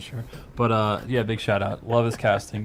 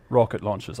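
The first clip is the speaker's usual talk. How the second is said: mock British TED speaker; British-accented speech-giver; 2 semitones lower, 4 dB quieter than usual. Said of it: "why you have to be British".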